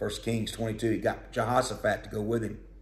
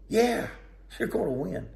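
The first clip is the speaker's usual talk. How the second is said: false prophets; 8 semitones higher than usual. Acted. Lying prophets cheering.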